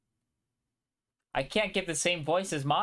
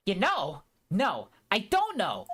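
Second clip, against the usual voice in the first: exasperated; 4 semitones higher, 3 dB louder, slower than usual. Acted. Character exasperated retort.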